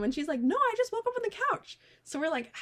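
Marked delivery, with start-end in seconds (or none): 0.4-1.8 put-on high-pitched drunk insistence; mock-drunk protest; imitating drunk friend. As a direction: argue back in a high, befuddled voice. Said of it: "fighting with her".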